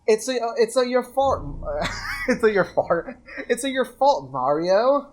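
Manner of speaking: lightly put-on British accent, barely there. Rereading the line for a friend, half-hearted British accent. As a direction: try for British, mostly in the own voice. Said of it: "in a British voice".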